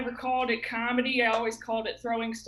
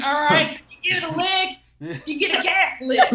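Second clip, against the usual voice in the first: mock priest line; 4 semitones higher, 6 dB louder than usual.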